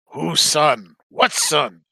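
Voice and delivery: terse, lumbering character voice; short blunt phrases, each set apart; gruffly lobbed-back message; in-character reply. Acted. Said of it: "message that Almas would get back".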